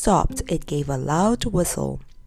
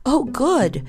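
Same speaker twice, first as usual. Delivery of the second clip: higher, happy little exclamation; pleased; 6 semitones higher than usual. A narrator's reading. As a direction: show a child's simple delight.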